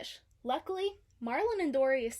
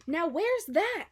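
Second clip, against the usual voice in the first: puzzled; 6 semitones higher, 7 dB louder, slower than usual. A narrator's reading. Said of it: "wondered Marlin".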